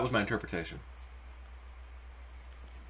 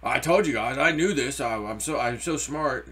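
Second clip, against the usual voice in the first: mock boast. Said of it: "My ego would love to say".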